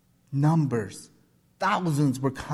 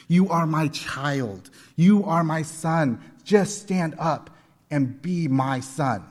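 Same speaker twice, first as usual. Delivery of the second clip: rising sermon cadence, voice swelling; impassioned preaching. Acted. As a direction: preach it to the crowd. Preaching at full force.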